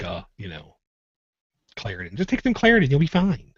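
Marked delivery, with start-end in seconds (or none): 2.1-3.5 imitating wife. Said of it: "the wife keeps telling me".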